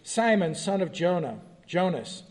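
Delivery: measured, solemn Bible reading; scripture reading. Acted. Teacher reading the Gospel passage to the class, solemn reading. Reads John 21 aloud.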